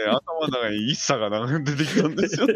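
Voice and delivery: laughing. Real, not acted. Laughing while telling.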